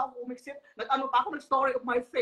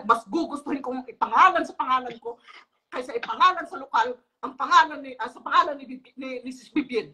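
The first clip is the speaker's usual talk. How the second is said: mock raised voice, somewhat louder; 5 dB louder than usual. Imitating Sis Lynn raising her voice on the call, mildly louder. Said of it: "pero lakas ng boses".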